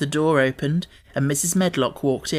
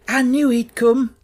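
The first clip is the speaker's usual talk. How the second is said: high, loud and slow in triumph; exultant; 9 semitones higher, 6 dB louder, slower than usual. A narrator's reading. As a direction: crow it out, delighted. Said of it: "said Martha exultantly".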